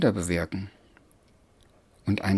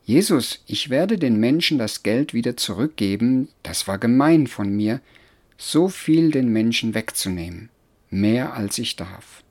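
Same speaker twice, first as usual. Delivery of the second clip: a touch louder, earnest confession; Zachäus; 3 dB louder than usual. Acted. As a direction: confess with sincere regret. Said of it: "hörte ich Zachäus sagen".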